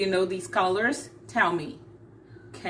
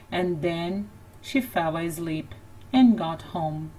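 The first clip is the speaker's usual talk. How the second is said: lively, lilting storybook voice; animated picture-book narration; reading to children; 3 dB louder than usual. A narrator's reading. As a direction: read it like a bedtime story to little kids.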